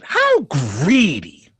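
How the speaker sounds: put-on drawn-out British-accent exclamation; mock British accent. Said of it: "in my British accent".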